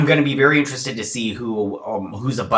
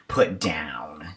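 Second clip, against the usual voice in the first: whispered; 7 semitones lower, 5 dB quieter than usual. Acted. Whispered punchline about the dad.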